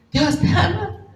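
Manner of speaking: Dios te ama called out high and loud, ama stretched; fervent cry. Retold or imitated. Preacher's ringing call to the crowd, loud and high. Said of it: "solamente recuerdo estas palabras".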